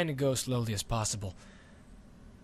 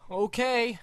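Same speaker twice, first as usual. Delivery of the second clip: put-on higher, timid boy agreeing; small scared boy, higher; nervous boy; 10 semitones higher, 3 dB louder than usual. Boy agreeing before liftoff, nervous.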